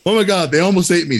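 high, fast panicked gasp of a quote; high-pitched breathless panic; panicked Tommy. Retold or imitated. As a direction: play the scared friend running up breathless. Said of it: "He's out of breath".

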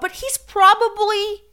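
mock-convinced squeak; sarcastic self-reassurance. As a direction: talk yourself into it unconvincingly. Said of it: "it seems like he doesn't know".

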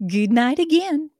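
put-on reading a love letter in a light Southern accent. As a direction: read it as a swooning Southern girl. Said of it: "that accent".

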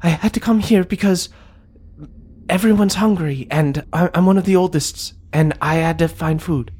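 high, timid little voice; nervous, apologetic kid creature; little bullywug. Acted. Young bullywug explaining herself to Ma Goblin, high and timid. Liddy stammers under insight.

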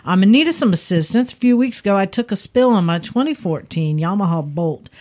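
a hint of Texan twang on the letter; Texan accent. Host reading a listener's email in a light Texan accent. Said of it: "read 'em in the accent of the person who's writing".

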